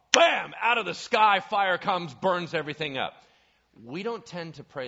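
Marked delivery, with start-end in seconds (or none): 0.1-3.1 loud, excited, higher-pitched exclamation; dramatic burst. Retold or imitated. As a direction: make the fire crash down. Fire falls on Carmel retold.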